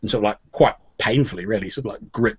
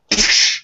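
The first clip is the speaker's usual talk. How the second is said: imitated slap, a sharp burst of hiss; loud slap noise; 5 dB louder than usual. Narrator mimics a glove slapped across the face, loud slap noise. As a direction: make the crack of a slap with your mouth. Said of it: "there's, like, a loud".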